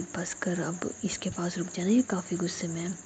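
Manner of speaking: soft, hushed signal; hushed aside. Acted. Nidhi quietly signalling Roohi to stay, soft and hushed. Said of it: "इशारे में कहती है".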